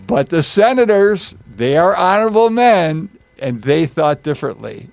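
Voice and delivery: mock-sincere sarcasm. Teacher voicing Antony undercutting the senators, sarcastic. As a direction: pointedly insist on their honor without meaning it. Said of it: "you're throwing the senators under the bus".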